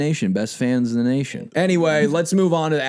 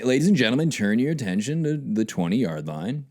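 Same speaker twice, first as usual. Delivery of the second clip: stadium announcer; 3 dB quieter than usual. Acted. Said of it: "they should bring him out and say".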